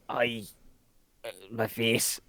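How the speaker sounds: muffled, talking with mouth full. Pretend. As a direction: speak around a bite. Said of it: "you say this with your mouth full".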